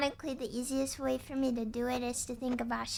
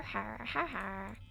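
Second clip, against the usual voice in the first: fading mock laugh; 4 semitones lower, 5 dB quieter, slower than usual. Fake laugh variations.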